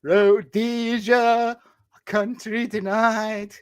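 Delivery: slow, drawn-out announcer voice; dramatic title read. Retold or imitated. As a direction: intone it slowly like a trailer. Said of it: "I was like".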